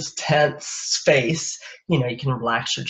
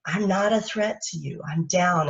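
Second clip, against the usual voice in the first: gentle reassurance; 3 semitones higher, 4 dB quieter than usual. Shown as a demonstration. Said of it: "signaling to them".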